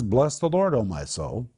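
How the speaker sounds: pep talk. Retold or imitated. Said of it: "he's speaking to his emotions".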